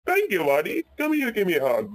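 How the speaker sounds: affectionate, lifted-pitch thank you; grateful. Acted. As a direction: act out relieved gratitude. Rescued Ben thanks his friend.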